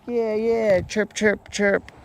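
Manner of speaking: high little critter chirping; mock hamster chirps; squeaky hamster voice. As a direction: chirp it out like a tiny pet bird. Voicing Hammy the hamster.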